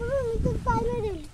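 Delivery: teary, hurried protest through sobs; real crying. Real, not acted. Girl protests she didn't step on the plant, crying. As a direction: blurt the denial while crying. Child denies fault, crying.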